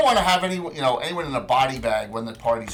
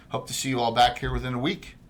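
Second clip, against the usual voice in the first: Alexis; faster than usual. Acted. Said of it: "Alexis will take her adieu".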